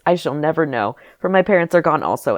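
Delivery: lightly lilting storybook lament; theatrical, tuneful mock sorrow; sing-song. A narrator's reading. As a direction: recite it with a mild sing-song lilt. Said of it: "I say in a sing-song voice".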